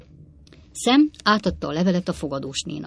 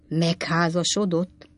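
excited exclamation; slower than usual. Acted. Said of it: "kiáltott fel Pott úr heves izgalommal".

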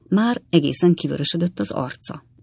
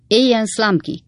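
higher-pitched, mildly raised cheer; shouted cheer; 6 semitones higher than usual. A narrator's reading. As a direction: narrator voicing cheering citizens. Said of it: "kiáltozták a derék és független érzelmi polgárok".

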